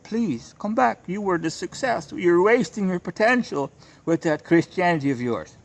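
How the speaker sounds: high, coaxing imitation of begging mothers; pleading mothers. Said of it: "they're kissing the ring".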